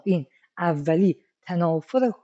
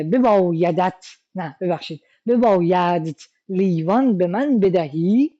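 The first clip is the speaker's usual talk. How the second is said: stilted archaic request. Pretend. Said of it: "با یه کسی صحبت بکنی".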